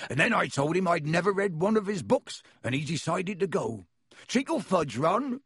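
a friendly giant welcoming guests in; half-giant host greeting visitors at the door; Hagrid voice. Acted. Hagrid gleeful.

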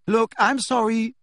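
high, loud outcry; cried out. Acted. Hermione cries out to the boys, high and loud. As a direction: cry it out to stop the argument. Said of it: "cried Hermione".

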